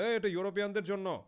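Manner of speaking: high, loud shout of a foreigner; calling out loudly. Acted. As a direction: holler it out as a warning. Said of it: "এক ফিরিঙ্গি হেঁকে বলল".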